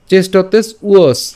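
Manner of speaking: "চেষ্টতেস উয়স" slow, in two careful pieces; split pronunciation. Shown as a demonstration. Teacher building the phrase piece by piece, slow "চেষ্টতেস উয়স". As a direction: break "চেষ্টতেস উয়স" after the first s. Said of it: "একসাথে উচ্চারণ করলে".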